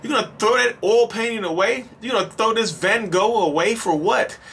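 high-pitched, indignant pleading; narcissist guilt-tripping. Acted. Narcissist to a departing partner, indignant guilt trip. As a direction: act wounded and turn it into an accusation. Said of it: "when you finally decide that you wanna leave".

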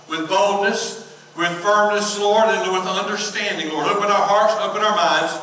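earnest, steady pulpit prayer; public prayer. Real, not acted. Pastor praying to God before the sermon, earnest prayer.

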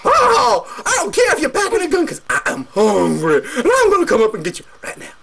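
greedy troll. Acted. Troll answers the goat.

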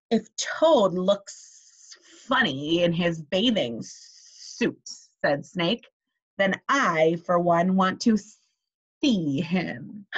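a hint of a hissing snake. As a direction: draw out the words like a sly snake. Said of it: "when I'm talking like the snake".

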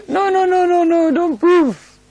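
high string of noes through laughter; laughing protest. Real, not acted. Preacher warning listeners not to prove it, laughing. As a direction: wave it off laughing, slowing at the end.

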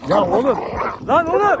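high, loud scolding of dogs; exasperated shout. Real, not acted. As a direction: yell at them in exasperation. Scolding dogs fighting again. (bıkkınlıkla bağırarak azarlama)

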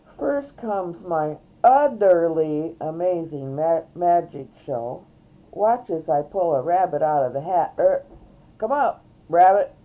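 loud, lightly voiced show host; showy cow entertainer. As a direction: announce it like a hammy magician. Reader plays Mary Moo Cow performing.

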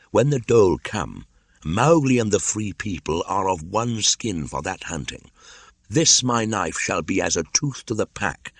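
put-on determined young pledge, slowing on the final words; resolute Mowgli. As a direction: declare it firmly, voice lifted.

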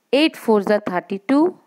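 chanted times table, each line rising; slow sing-song recitation for the class; slow school dictation. Shown as a demonstration. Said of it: "now you have to repeat with me".

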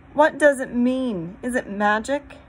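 high, loud, bewildered questions; crying out. A narrator's reading. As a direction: raise the voice in alarmed wonder. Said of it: "cried Susan".

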